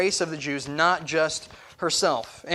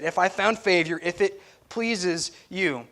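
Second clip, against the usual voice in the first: respectful plea. Retold or imitated. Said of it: "she's respectful in the way that she says it".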